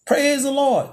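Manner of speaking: lightly voiced old church lady; mock church lady shout.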